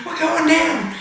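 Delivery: high shouted mock panic, hammed up; mock Poe panic. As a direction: yell it like a pilot crashing, overdone. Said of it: "and he's like".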